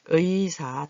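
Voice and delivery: 의사 read carefully with a full ui; word-list reading. Shown as a demonstration. Teacher reads the word for learners, careful model reading. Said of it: "다시 한번 단어들을 읽어보겠습니다".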